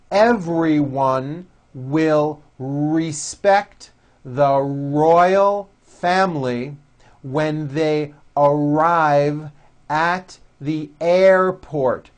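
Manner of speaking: deliberate, slow model sentence; slow practice reading. Shown as a demonstration. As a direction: read it slowly for learners to copy. Reads practice sentence slowly.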